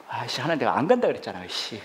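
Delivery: grumbling prayer. Retold or imitated. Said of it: "막 그렇게 기도했어요".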